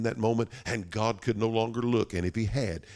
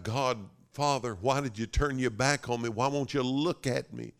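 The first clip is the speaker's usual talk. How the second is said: slightly raised, pleading voice; mild anguished cry; 4 semitones higher than usual. Acted. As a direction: plead as the abandoned son. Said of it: "Cried out".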